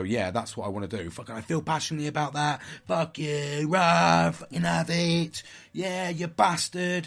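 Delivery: hammed-up fury, building to a bellow; mock angry outburst. Old me flaring up at someone, building angry rant. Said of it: "I would flare up even more and go".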